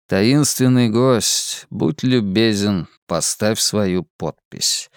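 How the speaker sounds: slow, sardonic inner voice; dark ironic thought, half-hysterical; bitter mock politeness. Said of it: "подумал он".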